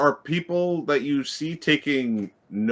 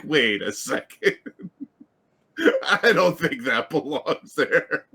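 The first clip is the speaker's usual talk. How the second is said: laughing mock quote; 4 semitones higher, 3 dB louder than usual. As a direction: tease it while laughing. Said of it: "And it's like".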